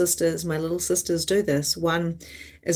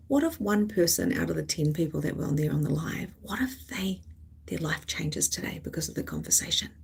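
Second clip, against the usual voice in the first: hopeful inner whisper; 5 semitones lower, 8 dB quieter than usual. Retold or imitated.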